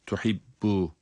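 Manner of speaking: "tuhibbu" with a silent catch before the b releases; "tuhibbu" with a firm doubled b; voiceless hold on B. Shown as a demonstration. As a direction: stop on the double b of "tuhibbu" without sound. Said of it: "ilk bölümde yine ses vermiyoruz".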